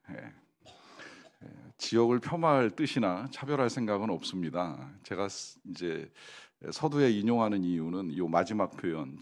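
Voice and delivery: ordinary delivery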